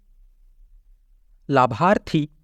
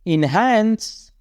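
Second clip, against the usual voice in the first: slow drawn-out repeat; 4 semitones higher, slower than usual. Shown as a demonstration. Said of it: "teacher repeats word".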